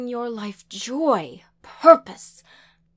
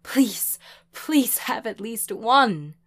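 loud, high-pitched reproach turning to pleading; upset mother's loud tirade; distraught scolding; 4 semitones higher, 9 dB louder than usual. A narrator's reading. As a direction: berate your child, then beg.

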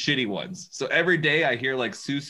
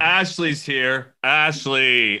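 growing annoyance; 5 dB louder, much slower than usual. Retold or imitated. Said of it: "gets lower and more monotone the angrier it gets".

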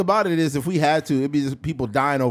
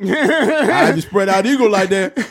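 louder, laughing mock bravado; playful Shannon boast; hammed-up Shannon impression; 5 semitones higher, 7 dB louder than usual.

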